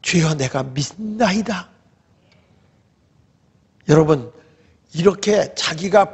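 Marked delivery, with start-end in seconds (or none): 0.0-1.7 slow, retold profession of faith; reverent confession. Healed man kneeling before Jesus, reverent confession. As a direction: draw it out as a devout pledge. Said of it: "무릎을 탁 꿇으면서".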